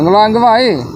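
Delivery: high coaxing dog call. Real, not acted. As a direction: lure the dog in. Calling the dog.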